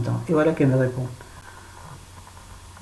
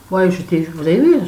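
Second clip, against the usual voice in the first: grumbling; 3 semitones higher, 7 dB louder than usual. Real, not acted. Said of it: "je râle encore".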